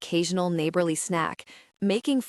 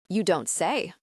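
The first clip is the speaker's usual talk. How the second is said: sarcastic. Acted. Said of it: "I say with an eye roll".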